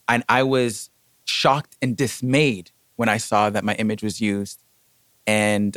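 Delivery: measured, formal statement of complaint; controlled, deliberate retold formality; very frank. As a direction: state it firmly, pausing between points. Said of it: "I addressed them very frankly".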